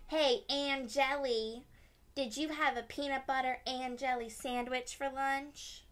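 taunting yell. Acted. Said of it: "he yelled".

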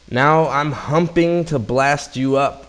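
lightly hammed-up gorilla roar; mock roar. A narrator's reading. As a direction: roar the threat in storybook style. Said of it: "roared the gorilla".

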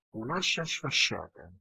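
"sfasciata" with a whistling hiss on the s sounds; "Un'ascia sfasciata" with each s whistling through the teeth. Real, not acted. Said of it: "Mi esce un fischio quando dico questa frase".

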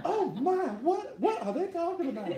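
high, giggling through the words; laughing. Real, not acted. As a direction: laugh it out, caught off guard. Laughing at himself.

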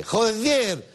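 "Joder" high, leaning on the E; stressed joder. Shown as a demonstration. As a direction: land hard on the E of "Joder". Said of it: "así con acento en la E". ("Joder" con acento en la E)

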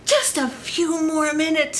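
sleepy farmer. Acted. Sleepy farmer begs for time.

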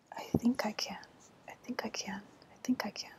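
soft chugging refrain; quiet resolve. A narrator's reading. Little engine before pulling the train, quietly resolved. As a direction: murmur it softly, like a small engine encouraging itself.

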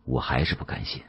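ordinary delivery, nothing marked

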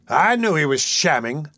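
slow, drawn-out told-you-so; triumphant. A narrator's reading. Magistrate about the fainted boy, triumphant. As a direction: crow it slowly, as proof.

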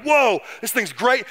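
slow, drawn-out mock wonder; awed exclamation. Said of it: "They were like".

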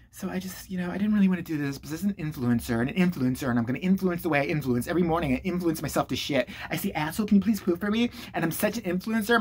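softly spoken parody of a vlogger; mock influencer. Influencer addressing her viewers about herself, mock precious. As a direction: send up a self-important influencer. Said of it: "she comes on there and she's like".

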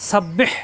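সাব্বিহ with a doubled ব and a pressed breathy হ; pressed throaty h. Shown as a demonstration. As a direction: squeeze the last হ of সাব্বিহ from the throat. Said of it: "কণ্ঠনালীতে চাপ সৃষ্টি হবে". (সাব্বিহ-এর হ কণ্ঠে চাপ দিয়ে)

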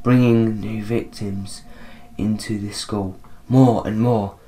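soft, halting spirit; ghostly voice. Acted. Ghost telling of new victims, softly ghostly. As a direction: drift through it quietly with long gaps. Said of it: "I'm gonna do, like, a ghostly voice".

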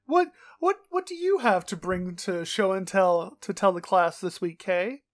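teasing a co-host with a mock teacher voice. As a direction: call on the pupil like a teacher. Mock teacher asks for show and tell.

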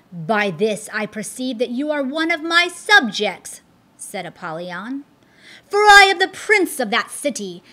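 proud fiend prince, booming and lordly; a lordly demon claiming his subject; Apollyon. Acted. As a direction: loom over him as the prince of that city. Apollyon's voice in the story.

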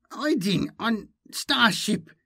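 high, slow alien creature; high twisted-tongued hybrid; Malindi, inhuman voice. A narrator's reading. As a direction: speak as if through a distorted larynx. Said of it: "her voice was far from human".

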